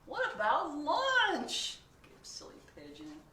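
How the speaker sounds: high, loud anxious questions; fretting pigeon. Acted. Pigeon worries about school, high anxious. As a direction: fret through every worry.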